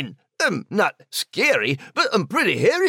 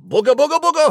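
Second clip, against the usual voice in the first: mock monster; 6 semitones higher, 5 dB louder, much faster than usual. Scaring the announcer again.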